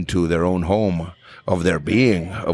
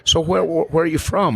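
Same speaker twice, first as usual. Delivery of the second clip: higher, lightly voiced Alabama lady, politely curious; Southern lady; 10 semitones higher than usual. Birmingham lady after the show, higher sweet Southern voice. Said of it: "she said".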